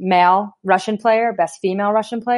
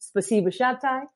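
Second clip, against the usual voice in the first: repeating the terse thanks; 4 semitones higher than usual. Retold or imitated. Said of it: "Spasiba Nata".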